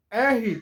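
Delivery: "R" said in two syllables, "EH-hee"; name "R" the Brazilian way, as "érri" with an h sound; "R" as a demonstrated "eh-hi"; Portuguese letter R. Shown as a demonstration. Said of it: "você vai aprender a falar comigo essa letra".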